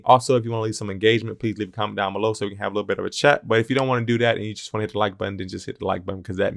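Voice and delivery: quick, run-on sign-off request; hurried vlogger patter; talking fast. Real, not acted. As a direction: rattle through it at a fast clip. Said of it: "I talk fast in this video".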